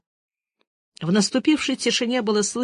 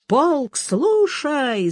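barked command; 6 semitones higher, much slower than usual. Acted. Soldier shouting an order at the table, parade-ground command. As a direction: call the regiment to attention. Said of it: "закричал солдат".

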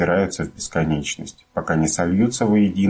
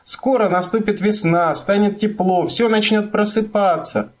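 excited shouting. A narrator's reading. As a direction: call out with delight. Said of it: "продолжал кричать мумитроль".

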